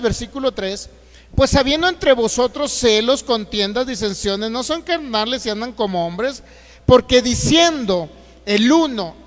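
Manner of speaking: loud, slowing on the key phrases; forceful scripture reading. Real, not acted. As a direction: thunder the verses at the church.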